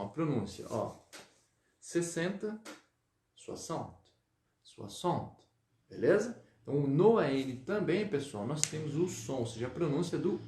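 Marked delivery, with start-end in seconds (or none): 3.3-5.4 soixante said swa-sant, the x as s; oi as wa, an nasal; French pronunciation. Shown as a demonstration. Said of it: "olha como é que vai ficar o som".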